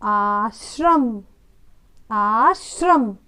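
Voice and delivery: आश्रम drawn out as aa-shram; आश्रम slowly with clear shr; slow model reading. Shown as a demonstration. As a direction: stretch आश्रम for the class. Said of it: "अगला शब्द है आश्रम".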